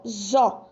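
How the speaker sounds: "zo" said alone with a voiced Z; isolated syllable demo. Shown as a demonstration. Teacher sounding out a syllable for children. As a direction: sound out "zo" with a buzzing Z. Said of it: "tem som de Z".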